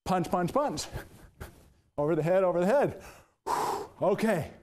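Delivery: breathless after the workout; out of breath between reps. Real, not acted. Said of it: "Now I need to catch my breath".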